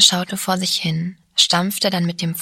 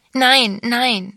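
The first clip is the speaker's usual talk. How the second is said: a sharp cry, higher and louder; 5 semitones higher, 4 dB louder than usual. A narrator's reading. Sabine cries out at the mention of her parents, higher and louder. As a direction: cry out in panic. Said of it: "schrie Sabine auf".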